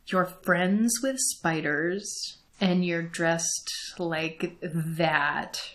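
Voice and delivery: put-on soft, slow, wide-eyed whisper of a boy; a little boy leaning in with a sudden suspicion, quietly and slowly; awed, hushed question, drawn out; hushed slow kid voice. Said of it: "he's like".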